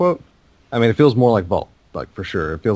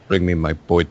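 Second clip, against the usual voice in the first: put-on Mickey Rourke's Whiplash accent, half-hearted; badly faked movie-villain accent; attempted Whiplash accent; 3 semitones lower than usual. Imitating Whiplash asking for his bird, half-hearted accent. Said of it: "Can't do that accent".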